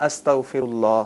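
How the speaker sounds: استغفر اللہ said as astaghfirullah, opening on a; Arabic form. Shown as a demonstration. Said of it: "اس کو اس طرح کہیں گے". (استغفر اللہ عربی انداز میں، زبر والے الف سے)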